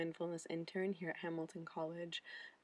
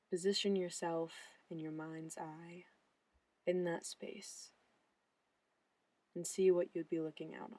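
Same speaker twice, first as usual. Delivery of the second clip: calm, measured guide with long pauses; guided looking meditation. Acted. Mindfulness intern guiding viewers' eyes around a landscape painting, guided meditation. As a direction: gently lead the eye, phrase by phrase.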